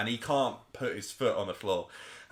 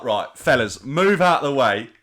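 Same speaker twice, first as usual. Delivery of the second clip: cocky loud order; 7 dB louder than usual. Retold or imitated. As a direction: boss the lads out of the way, loudly. Drunk mate showing off.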